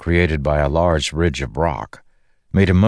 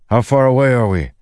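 raised, high, loud call over the wind; shouted question; 8 semitones higher, 4 dB louder than usual. A narrator's reading. Dalinar calling to his flying companion over the wind, shouting. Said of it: "he shouted it more loudly".

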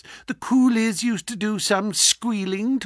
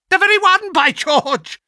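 triumphant, high and loud; gleeful; 11 semitones higher, 6 dB louder than usual. Acted. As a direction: crow over the find. Villain exults over box.

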